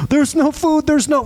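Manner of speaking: high-pitched mock Jewish-accented grumbling. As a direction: lightly complain in a Jewish accent. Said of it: "that went into a Jewish accent".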